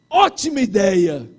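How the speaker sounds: loud, slow hearty endorsement; mock emphatic group approval; imitated enthusiastic approval. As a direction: play a whole room approving. Retold staff approving loudly.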